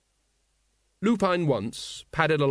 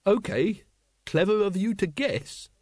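higher, nervous official; lightly voiced nervous clerk; Wonse voice; 7 semitones higher than usual. A narrator's reading. Once character voice.

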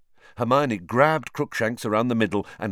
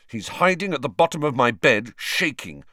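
angry; 4 semitones higher, 4 dB louder than usual. Acted. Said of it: "said Ron angrily".

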